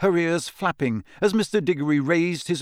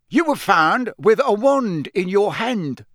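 barking; 8 semitones higher, 6 dB louder, slower than usual. Acted. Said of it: "barked Mister Diggory".

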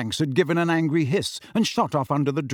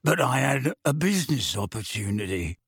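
pleading. A narrator's reading. Mundungus explaining to Harry why he left, pleading. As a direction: plead lightly in Mundungus's put-on voice. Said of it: "a pleading note in his voice".

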